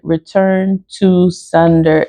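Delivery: "return to sender" slowed right down, each word set apart. Shown as a demonstration. Vlogger showing the three words to carve, "return to sender" said slowly and distinctly. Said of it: "It's three words".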